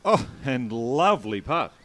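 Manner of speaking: excited. Real, not acted. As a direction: savour the putt as it drops. Putt drops on live TV.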